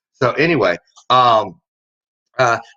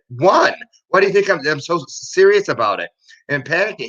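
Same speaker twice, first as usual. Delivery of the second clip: mock exasperated panic; 7 semitones higher than usual. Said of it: "I said".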